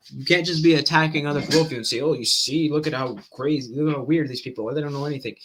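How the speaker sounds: rapid, run-on argument; words tumbling out quickly in debate; talking fast. Real, not acted. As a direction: rush through it without stopping. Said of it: "I know I'm talking fast right now".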